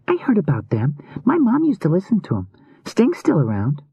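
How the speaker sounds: put-on a kid chatting, pitched high; casual young boy. A narrator's reading. Adam answers Rune about old bands, casual young boy.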